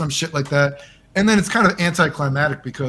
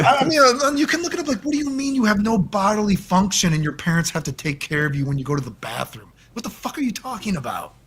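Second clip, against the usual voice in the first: much higher, exasperated disbelief; incredulous rant; 7 semitones higher than usual. Real, not acted. Telling the host about the furry contestant, high exasperated disbelief. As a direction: throw up your hands at the absurdity. Ranting about the tanuki claim.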